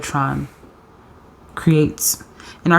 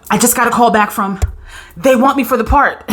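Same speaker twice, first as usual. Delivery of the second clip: excited; 5 semitones higher, 3 dB louder than usual. Pretend. Imagined excited callback news.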